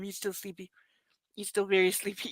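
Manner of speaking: very soft, hushed voice. Real, not acted. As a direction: keep it down for the dog. Hushed near sleeping dog.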